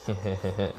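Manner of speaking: soft mock chuckle of someone about to torture; quiet, acted snicker; villain chuckle. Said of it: "Shinigami was like".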